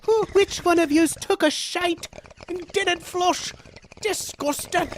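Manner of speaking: high Scottish lass voice, far above her own, full of disgust; Scottish lass brogue. Acted. Streamer voicing a chat line as a disgusted Scottish lass, high brogue. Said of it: "in the brogue of a young Scottish lass".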